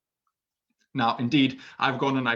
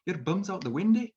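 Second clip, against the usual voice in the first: Scotsman; 4 semitones higher than usual. Retold or imitated. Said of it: "a Scotsman would just go walk up to you and say".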